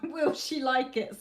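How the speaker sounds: giggling while reading. Real, not acted. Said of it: "I shouldn't laugh".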